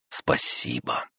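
faint, slow, breathy whisper; weak whisper. A narrator's reading. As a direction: barely breathe the thanks. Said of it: "слабый шёпот".

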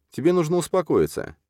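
put-on high calm young woman's voice; calm girl voice. A narrator's reading. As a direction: soothe him in a high, even voice. Katya calms Kolya.

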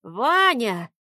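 a lightly voiced wheeze from the old man; old man wheezing. A narrator's reading. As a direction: choke the name out while being strangled. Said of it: "прохрипел дед".

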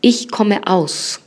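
Ich komme aus very slowly, stress on Ich; teacher modelling Ich komme aus; slow model phrase. Shown as a demonstration. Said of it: "vamos a decir yo vengo de".

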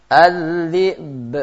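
"Az-zi'b" ending in a bouncing echoed b; with qalqalah. Shown as a demonstration. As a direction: let the final b of "Az-zi'b" rebound. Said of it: "Bacanya qalqalah".

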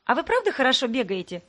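blurted out. Acted. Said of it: "выпалила одна из девушек".

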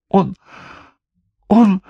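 high, loud terrified blurt; forcing the word out in panic; deathly terror. A narrator's reading. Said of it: "Леденея от смертельного ужаса".

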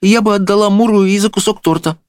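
put-on high girlish voice; high-pitched princess offer; princess, relenting. A narrator's reading. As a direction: concede it in a small high voice.

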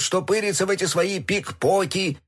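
grumbling. A narrator's reading. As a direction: grumble about young people, voice rising. Отец ворчит на поколение. (ворчливое возмущение)

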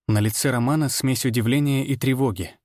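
ordinary delivery, nothing marked

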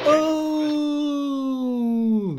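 long, high, sliding "ooh"; loud falling siren-like ooh; mock wince "ooh". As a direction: let out a drawn-out high howl of mock pain. Wincing after a harsh noise.

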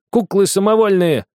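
put-on high, loud commanding boy; angry shout. A narrator's reading. Boy shouting at the girl leaving, furious. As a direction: bark the order to stop. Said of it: "закричал Огоньков".

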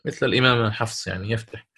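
ordinary talk, nothing marked

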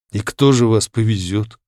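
ordinary delivery

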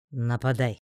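terse, dry order; understated, businesslike command. A narrator's reading. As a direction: give the order without emotion. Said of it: "сухо приказал он".

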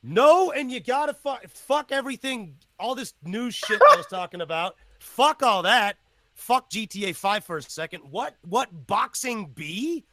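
loud, high, thrilled yelling; excited outburst. Real, not acted. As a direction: burst out, can't contain it. Excited outburst about boxing news.

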